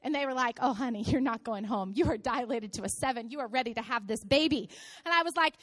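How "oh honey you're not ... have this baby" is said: low-pitched, settling reassurance; lightly acted motherly calm; reassuring nurse. Nurses telling her she is staying, low reassurance.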